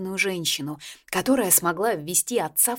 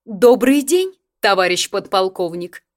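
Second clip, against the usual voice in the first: grande dame; 2 semitones higher, 9 dB louder than usual. A narrator's reading. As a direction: announce yourself like a regal old lady. Grandmother's commanding greeting at door.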